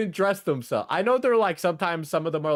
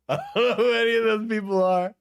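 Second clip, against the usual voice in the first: laughing through I don't know who any of those people are, a touch higher; laughing repeat; 6 semitones higher, faster than usual. Real, not acted. Streamer laughing at the unknown award guests. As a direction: laugh it out in disbelief.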